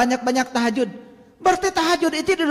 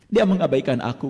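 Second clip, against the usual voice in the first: voicing God's words; 12 semitones lower than usual. Preacher voices Allah's words to the congregation, low and solemn. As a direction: speak as the divine, low and hushed. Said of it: "kata Allah".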